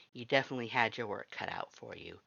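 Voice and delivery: plain reading voice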